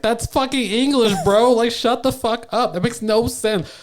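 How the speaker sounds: high-pitched, indignant mock scolding; exasperated retort. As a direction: tell them off in exasperation. Retells own retort to people.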